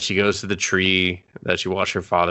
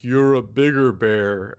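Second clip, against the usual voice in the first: mock dad advice; 2 semitones higher, 6 dB louder, slower than usual. Dad's line mocked slowly.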